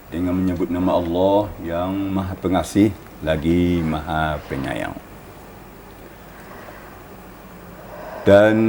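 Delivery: calm recitation voice; solemn reading. Acted. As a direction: read the meaning with reverence. Reads translation of verse.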